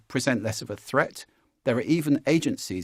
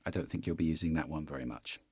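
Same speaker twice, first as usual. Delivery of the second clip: lower, softer creaky fry; vocal fry; 7 semitones lower, 9 dB quieter, faster than usual. Shown as a demonstration. Coach demonstrating vocal fry. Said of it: "Sounds like this".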